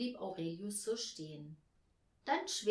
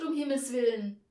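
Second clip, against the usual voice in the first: loud, higher cry of dismay; appalled exclamation; 4 semitones higher, 9 dB louder than usual. A narrator's reading. Hostess aghast at the visitor's costume, loud dismay. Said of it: "sagte sie entsetzt".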